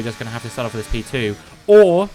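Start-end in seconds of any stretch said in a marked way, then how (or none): 1.7-2.1 sudden loud, much higher burst of exasperation; as the car fails yet again, a loud groan of disbelief; exasperated outburst. Real, not acted. Another mechanical failure strikes.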